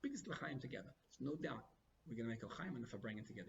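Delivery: quiet, even, unhurried assurance; calm. Retold or imitated. Promising the yeshiva's opponent a celebration, calm and quiet. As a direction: soothe him without pushing. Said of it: "it was calm".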